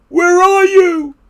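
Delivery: high, loud, drawn-out call. A narrator's reading. Toad calls for vanished Frog, long high cry. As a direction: stretch the call out to someone lost.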